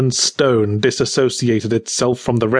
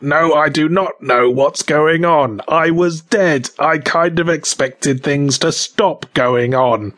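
mildly exasperated rasp; raspy risen voice; 4 semitones higher than usual. Acted. Freshly woken dead man answering the corpse, raspy. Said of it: "rough and raspy as his".

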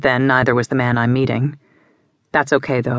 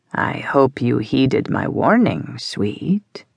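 sinister and calm; much slower than usual. Acted. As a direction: threaten her without raising your voice. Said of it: "as sinister as it is calm".

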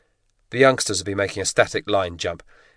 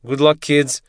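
higher, louder shout over engine noise; 7 semitones higher, 6 dB louder, slower than usual. A narrator's reading. Instructor shouts to the trainees before the jump, shouted. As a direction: send them off with a bellow. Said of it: "Kazakov shouted".

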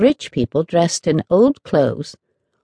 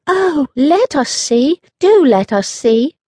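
put-on much higher, louder, slow pleading children; eager cry; 10 semitones higher, 4 dB louder than usual. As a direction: beg excitedly to see it. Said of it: "the children cried both at once".

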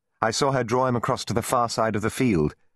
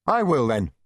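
raised, higher, resolute voice; loud declaration; 5 semitones higher than usual. A narrator's reading. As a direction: announce it so all can hear. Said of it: "I said loudly".

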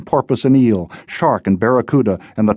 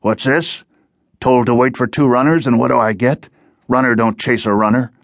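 gruff giant challenging two runners; rumbling giant Whale; 3 semitones higher than usual. Acted. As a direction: play a suspicious hulking guard. Whale voiced as a story figure.

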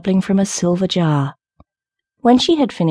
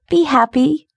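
high, lilting call of joy; high bird voice, cheering someone on; nightingale's cry; 9 semitones higher than usual. A narrator's reading. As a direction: call out happily, pitch right up. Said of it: "cried the nightingale".

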